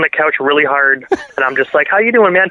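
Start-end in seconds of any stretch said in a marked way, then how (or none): 1.9-2.5 higher, putting on a normal chatty tone; mock casual greeting; forced casual. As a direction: play it cool while starstruck. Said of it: "Talking normal".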